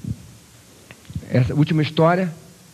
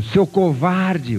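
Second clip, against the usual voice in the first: put-on boy taunting; 4 semitones higher, much slower than usual. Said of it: "o menino".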